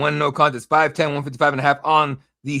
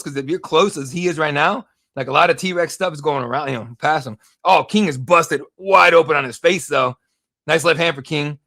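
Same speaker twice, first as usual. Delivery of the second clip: live play-by-play. Acted. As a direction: call the fight as it happens.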